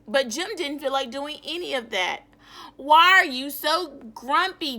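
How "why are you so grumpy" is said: cheery greeting. Acted. Cheerful character greets grumpy Jim.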